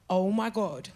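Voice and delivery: soft, aghast near-whisper; stunned disbelief. Retold or imitated. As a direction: say it under your breath, slowing at the end. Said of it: "just looked at me like".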